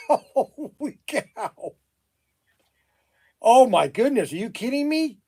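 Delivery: high, loud, stretched holy cow; incredulous outburst. Real, not acted. Shop owner on the phone, loud incredulous outburst. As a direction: explode in disbelief.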